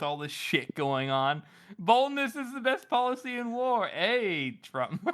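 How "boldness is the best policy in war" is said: higher-pitched, hammed-up war leader; mock brave commander. Podcaster repeating the meme's line for laughs, mock-brave proclamation. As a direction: declaim it as a mock-heroic slogan. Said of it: "He goes".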